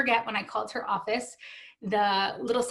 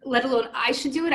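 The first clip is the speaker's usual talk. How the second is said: lost it; 4 semitones higher than usual. Retold or imitated. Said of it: "And I lost it".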